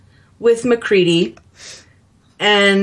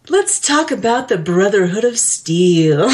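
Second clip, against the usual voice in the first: smooth DJ line breaking into laughter; laughing through a quote. Retold or imitated. Fan quoting the confident radio DJ while laughing. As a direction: try to say it smoothly but crack up. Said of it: "He's like".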